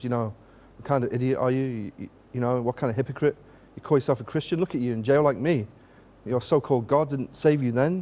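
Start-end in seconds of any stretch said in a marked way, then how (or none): none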